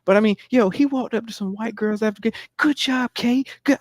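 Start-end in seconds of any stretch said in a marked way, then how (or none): 2.6-3.8 high, eager fake-nice praise; hammed-up suck-up cheering; mock fake praise. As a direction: overdo the sweet supportive dad. Mimicking man's fake praise.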